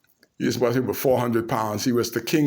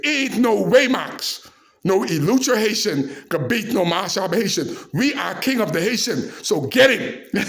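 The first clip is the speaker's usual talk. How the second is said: mad pep talk; 6 semitones higher than usual. Retold or imitated. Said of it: "I mad now".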